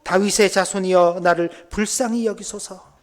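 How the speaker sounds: loud sustained plea, slowing at the end. Acted. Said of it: "더 크게 소리 지르는 겁니다".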